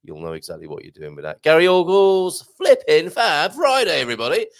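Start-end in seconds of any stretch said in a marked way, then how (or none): 1.4-4.5 mock bold greeting. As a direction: belt out the greeting like a hammy host. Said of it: "he doesn't really talk like that".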